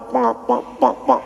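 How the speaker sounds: spoken rapid slap noises; imitated slaps. Showing the ustaz's two-handed slaps, imitated smacking noise. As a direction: imitate a volley of slaps, "pak pak". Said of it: "lagu tu".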